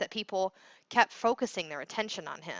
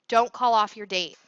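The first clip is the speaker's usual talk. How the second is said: louder, calling after someone leaving; called-out shout; 2 semitones higher, 6 dB louder than usual. Acted. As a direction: shout it after him as he goes. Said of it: "Andy shouted after him".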